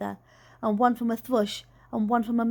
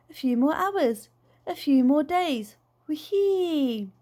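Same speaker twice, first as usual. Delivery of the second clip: a dad in a flying dream; 2 semitones higher, slower than usual. A narrator's reading. Dad voice in story.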